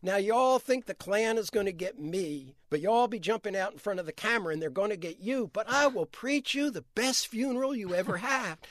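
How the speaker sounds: lightly imitated Southern accent, joking preacher; mock funeral promise in a Southern accent, rising at the end; Andrew Young's accent. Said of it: "I'm imitating Andrew Young's accent".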